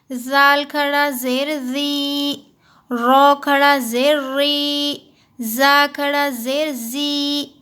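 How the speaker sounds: slow, measured spelling chant; teacher spelling out Arabic letters in a slow chant; slow recitation drill. Shown as a demonstration. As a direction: drill each letter slowly for the class.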